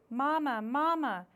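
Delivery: a little bird wanting attention; high baby-bird call; gosling calling. Acted. Gosling calling his mother.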